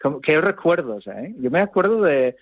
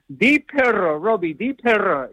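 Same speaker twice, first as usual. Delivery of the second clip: insistent teacher; 5 semitones higher than usual. Retold or imitated. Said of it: "siempre me decían".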